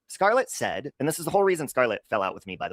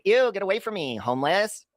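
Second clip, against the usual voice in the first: higher-pitched acted movie line; movie lady's line; 8 semitones higher than usual. Quoting a friend's movie role, higher acted voice. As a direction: play the lady shooing someone away, pitched up. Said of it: "She was the lady saying".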